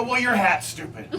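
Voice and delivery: high-pitched mock yell; half-screamed comeback; retold scream. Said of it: "where I've screamed in front of three hundred people".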